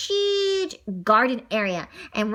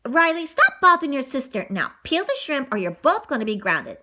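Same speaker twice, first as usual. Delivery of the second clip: warning mom. Acted. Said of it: "Mom warned".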